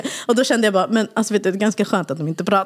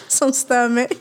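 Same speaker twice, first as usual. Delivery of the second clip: sarcastic mom; 7 semitones higher than usual. Retold or imitated. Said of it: "Jag bara".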